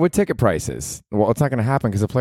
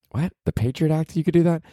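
incredulous; 9 semitones higher than usual. Real, not acted. Disbelief at article.

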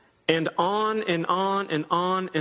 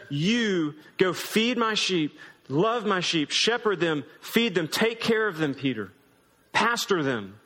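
gentle commission. Retold or imitated. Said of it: "He looks at Peter and says".

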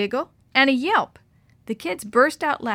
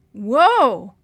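surprised; 2 semitones higher, 10 dB louder than usual. Acted. Brother cuts her off.

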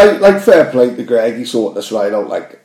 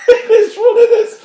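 laughing it out much higher; 4 dB louder than usual. Real, not acted. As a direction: repeat the line through a burst of laughter. Repeats quote laughing.

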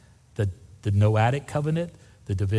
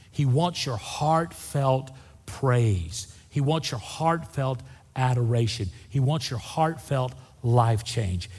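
tender appeal; slower than usual. Real, not acted.

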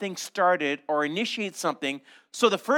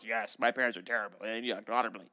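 mock child voice; 8 semitones lower, 8 dB quieter, faster than usual. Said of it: "And every child goes".

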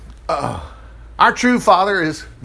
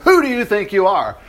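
mildly sarcastic challenge; 3 semitones higher than usual. Acted. Leaders challenge Jesus's claims, mildly sarcastic. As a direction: throw it out as a scornful question.

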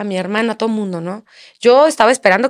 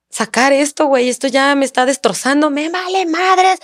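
higher-pitched, stretched at the end; retold exasperated outburst; 5 semitones higher than usual. Woman telling partner she must let it out, exasperated. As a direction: retell a desperate outburst, climbing higher.

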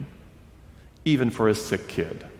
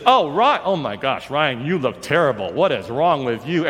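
high, loud gasping rush of concern; a fussing, big-hearted woman; loud gushing woman; 4 semitones higher than usual. Retold or imitated. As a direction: sweep in with a gush. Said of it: "this loud woman came swooping".

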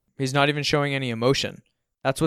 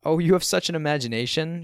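higher-pitched, indulgent mother; mom's pitched-up praise; lightly voiced mom; 6 semitones higher, 4 dB louder than usual. A narrator's reading. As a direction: gush like an admiring mom. Mom voiced, praising her son.

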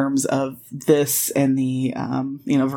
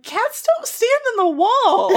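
very high, squealed protest with laughter; incredulous outburst. Retold or imitated. Podcaster objecting to a cat-like grip claim, incredulous. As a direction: blurt it out in comic outrage. Comic outrage at a bad analogy.

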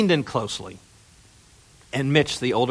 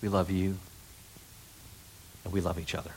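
soft tender quote; 3 semitones lower, 12 dB quieter, faster than usual. Retold or imitated. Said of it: "don't you want to hear".

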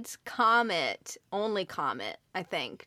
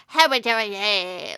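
reindeer noise; 2 semitones lower than usual. Retold or imitated. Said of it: "he would just sound like".

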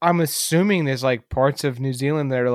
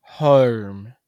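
New Zealand "home"; 2 semitones lower, 3 dB louder than usual. Shown as a demonstration. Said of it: "they pronounce their R's hard".

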